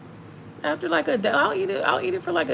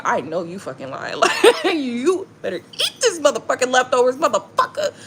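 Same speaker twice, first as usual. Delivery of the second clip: laughing mock scold; 3 semitones higher than usual. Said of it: "I was just like".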